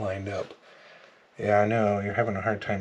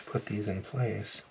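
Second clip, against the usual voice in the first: pen in mouth; 7 dB quieter, slower than usual. Real, not acted. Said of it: "I'm holding the glue pen in my mouth".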